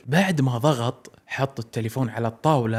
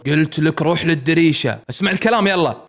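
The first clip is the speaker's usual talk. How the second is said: firm, weightier command; heavier tone; 2 semitones higher, 4 dB louder than usual. Acted. Caller sternly ordering Salem to the window. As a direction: lean on him harder. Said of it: "قال بنبرة أثقل".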